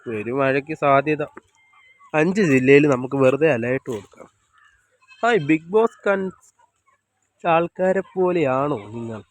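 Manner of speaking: ordinary delivery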